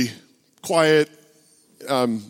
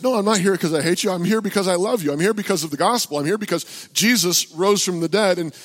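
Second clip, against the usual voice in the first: raised-pitch retold defence; earnest protest; 6 semitones higher than usual. Preacher answering an angry heckler about the gospel, earnestly insistent. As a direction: plead your case to an accuser.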